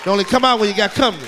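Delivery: fast, loud punchline; punchy shout. Acted. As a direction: bark it out quick.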